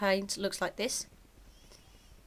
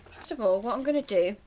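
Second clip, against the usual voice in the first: talking round a sweet; chewing noisily; 4 dB louder than usual. Real, not acted. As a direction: mouth full of candy. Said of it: "sorry, I'm eating sweets while I do this".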